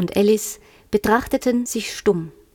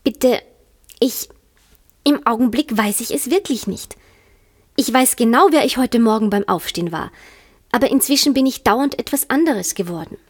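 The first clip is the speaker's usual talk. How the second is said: embarrassed Alice; 2 semitones higher than usual. Acted. Alice to the caterpillar, mildly embarrassed. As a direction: stumble through it shyly. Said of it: "und Alice sagte etwas verlegen".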